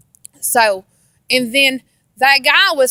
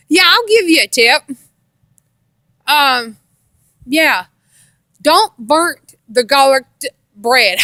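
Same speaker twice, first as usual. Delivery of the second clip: teasing husband. Retold or imitated. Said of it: "Robert said".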